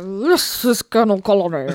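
booming colonel voice; loud officer; military officer. Acted.

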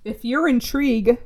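"intrigued" said without the final d, like "intrigue"; misspelling read out. Shown as a demonstration. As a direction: drop the d at the end of "intrigued". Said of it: "there's no D".

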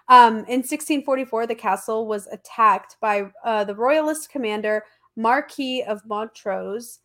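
stuffed-up voice from allergies; stuffy nose. Real, not acted. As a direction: talk through a blocked nose. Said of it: "I sound like I'm stuffed up".

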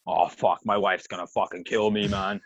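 lightly voiced drunk host; imitated slurring drunk. Host fretting about his wife, mildly mimicked drunk. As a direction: mimic a drunk guy's lament, starting low. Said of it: "slurring his words even more".

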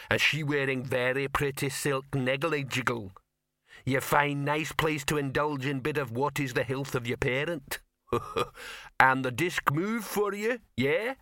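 troll voice with a sly chuckle, rising at the end; nudge-nudge troll innuendo; teasing troll. Acted. Rock teasing Victor about Ginger, sly and chuckling.

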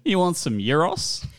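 brief put-on Greek accent.

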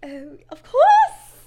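loud, drawn-out British accent. Shown as a demonstration. Answering a doubting friend, big British accent. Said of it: "Is that one British?".

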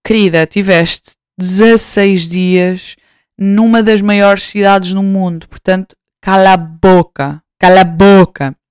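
slow, mock-stern self-scolding; scolding herself. Scolding herself out of nostalgia, slow mock-stern voice. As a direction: tell yourself off firmly, slowly. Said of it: "tento focar-me".

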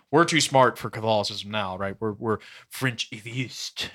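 mock French accent, slow and drawn out. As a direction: put on a French accent for the smug atheist. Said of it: "That's a pretty good accent".

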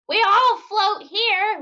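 put-on high, slow, loud ghostly child voice; drawn-out spooky call from the drain; haunted kid voice, stretched and eerie; creepy Georgie. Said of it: "little one-armed Georgie being like".

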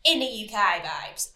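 playful touch of a British accent; a hint of a British accent. Shown as a demonstration. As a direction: toss in a quick, half-hearted British accent. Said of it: "I had to add an accent in there".

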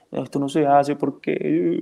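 mock frustrated owner scolding the dog, half-hearted; nervous dog owner. Trainer imitating a frantic owner scolding the dog, lightly. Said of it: "súper nervioso, frustrado, llorando".

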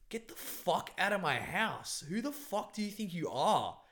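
high-pitched, indignant outburst; snapping angrily. Retold or imitated. Man snapping out of the trance at the woman, angry. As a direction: retell a furious order to get out. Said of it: "I just snapped out of it".

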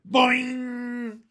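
high, loud, held-out twang; yelled boing. A narrator's reading. Someone eager to stretch a curl, yelling. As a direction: yell it and let it ring. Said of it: "eager to stretch a curl and yelled".

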